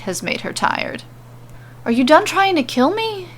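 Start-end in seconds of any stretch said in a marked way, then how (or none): 1.8-3.3 higher, hesitant nervous question. Acted. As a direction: ask it warily, afraid of the answer. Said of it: "he asks her nervously".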